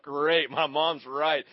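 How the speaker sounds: slow, deadpan resignation; resigned. Retold or imitated. Sinking boy admitting mom was right, slow and wry. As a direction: drag it out, defeated and wry. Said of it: "I'm like".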